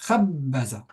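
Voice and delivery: "Khabbaza" stressed on its long first syllable; stress on KHAB. Shown as a demonstration. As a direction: put the accent on "Khab", then fall away. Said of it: "l'accent tonique, du coup, on va le mettre ici". (« Khabbaza » accentué sur la syllabe longue)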